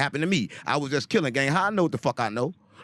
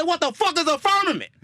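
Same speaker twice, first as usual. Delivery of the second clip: much higher, incredulous retold question; baffled question; 12 semitones higher than usual. Retelling his own confused reaction, high and baffled. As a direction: squeak it out in disbelief. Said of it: "I said".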